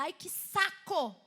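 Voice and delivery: drawn-out exasperated groan of words; mock irritation. Recalling her irritation at her mother, mock exasperated. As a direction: act out being fed up. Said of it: "já fiquei muito irritada".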